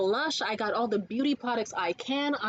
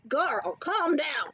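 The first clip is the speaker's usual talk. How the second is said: slow, drawn-out telling-off; exasperated; 3 semitones higher, much slower than usual. Pretend. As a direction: rein them in with stretched words. Telling imagined snobs to settle.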